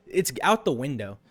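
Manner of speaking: loud, high outburst; fed-up yell about physics; exasperated rant. Real, not acted. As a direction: shout it in disbelief. Ranting about game physics.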